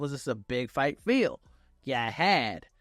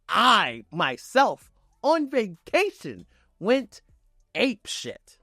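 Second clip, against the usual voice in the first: hyped; 3 semitones higher, slower than usual. Real, not acted. Hyped fan reliving Rock return.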